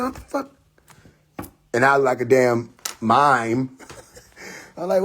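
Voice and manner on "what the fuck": retold shock. Acts out box dropping on him.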